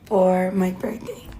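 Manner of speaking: lost voice, breaking into whisper; hoarse whisper, voice nearly gone; after dancing all night. Real, not acted. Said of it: "y'all, I have no voice, sorry, I was partying for days".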